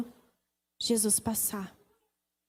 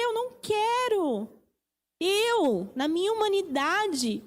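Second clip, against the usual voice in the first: raised, anguished plea to the Father; Jesus pleading in prayer; 6 semitones higher than usual. Retold or imitated. Jesus prostrate, begging the Father to take the cup, raised anguished plea. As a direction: beg to be spared the cup, voice lifted high.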